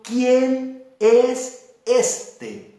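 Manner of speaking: very slow, drawn-out wonder; stretched, puzzled query; astonished question. Retold or imitated. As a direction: ask it as the stunned city.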